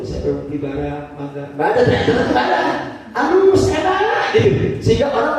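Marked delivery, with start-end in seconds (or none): 0.1-1.4 softly courteous offer; reformed merchant softly inviting a customer; polite, gentle seller. Retold or imitated. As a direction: invite the buyer kindly, low and soft. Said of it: "Sekarang santun".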